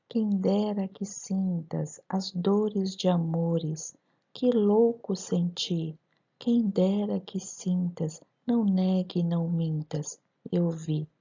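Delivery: slow rhythmic poem reading; poem recital. Shown as a demonstration. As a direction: read each syllable in the metre, slowly. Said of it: "eu vou lê-lo". (recitação lenta e ritmada)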